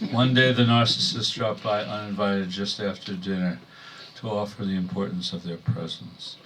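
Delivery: measured poem delivery in short phrases; poetry reading. Acted. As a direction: read a wry poem to an audience, pausing between phrases. Reads own poem to audience.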